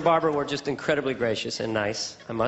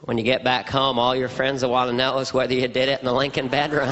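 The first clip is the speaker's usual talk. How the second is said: low, exaggerated presidential voice; folksy president confiding in a guest; comic send-up of a president; George Bush impression; 4 semitones lower than usual. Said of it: "My George Bush impression was".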